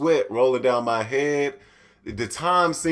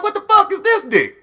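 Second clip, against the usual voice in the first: mock shock; 7 dB louder than usual. Shocked at his own body.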